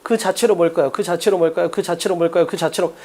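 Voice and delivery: low, even repetition, sinking slightly; repetitive reading aloud. Shown as a demonstration. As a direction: repeat it like scanning a text for the answer. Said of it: "자, 읽어".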